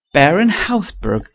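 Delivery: startled cry. A narrator's reading. Hughie learning who the beggar really was, crying out in dismay. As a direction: cry out the name in astonishment. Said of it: "cried Hughie".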